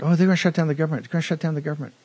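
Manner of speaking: high, fast whiny mockery of panicking kids; mocking like little children. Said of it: "Like little children".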